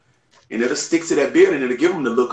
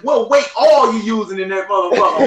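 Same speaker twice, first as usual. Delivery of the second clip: laughing; 8 semitones higher, 4 dB louder than usual. Real, not acted. Joking question, laughing.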